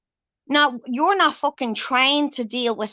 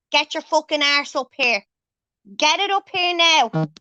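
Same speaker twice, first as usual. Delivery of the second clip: raised, higher demand to come up now; angry calling out; 3 semitones higher than usual. Real, not acted. Demanding Stuart join the live.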